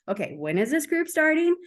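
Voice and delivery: a hint of an exacting planner; type A person. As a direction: fire off questions like an organizer wanting every detail. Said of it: "for my type A people".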